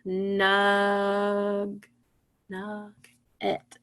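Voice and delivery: nugget broken after NUG, a held first part, then -et; syllable split. Shown as a demonstration. Teacher showing where the first part stops, split syllables. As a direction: hold NUG on a level note, stop, then finish nugget. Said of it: "where does the first part of the word stop".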